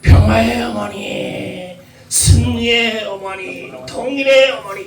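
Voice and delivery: high, drawn-out mock prayer shout; imitated prayer cry. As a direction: mimic someone crying out in prayer, stretching each phrase slowly. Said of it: "막 소리치면서 하는 말".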